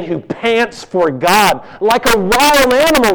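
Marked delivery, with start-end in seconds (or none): 1.8-3.1 high, loud, fervent cry; impassioned cry. Acted. Preacher voicing David's longing for God, loud and fervent. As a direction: cry it out like a man starving for God. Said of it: "he says".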